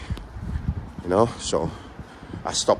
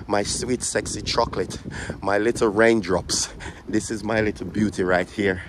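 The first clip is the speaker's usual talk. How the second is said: cooing to car. Real, not acted. Finds her car, coos.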